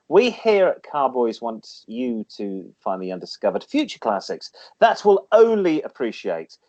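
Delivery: lightly read-out segment voice; feature read. Acted. Reads classic car feature.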